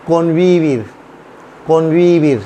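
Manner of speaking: कॉन्वीविर with clear V sounds, falling at the end; V after N. Shown as a demonstration. Teacher showing learners V after N, कॉन्वीविर with V. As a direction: model कॉन्वीविर as kon-vee-VEER. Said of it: "फिर वी की तरह pronounce करता है".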